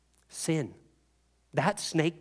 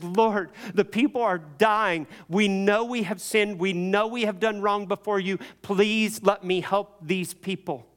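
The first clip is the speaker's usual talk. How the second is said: intercede urgently for the people; acted Moses begging, pitched up; earnest pleading; 5 semitones higher than usual.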